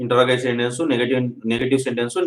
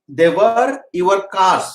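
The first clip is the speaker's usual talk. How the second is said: slow, raised-pitch dictation of each word; 6 semitones higher, much slower than usual. Shown as a demonstration. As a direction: spell it out slowly for the class. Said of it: "teacher dictating sentence slowly". (నెమ్మదిగా, పైస్వరంలో dictation)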